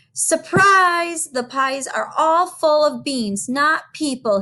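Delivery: surprise. Acted. Jack reveals trick to giants.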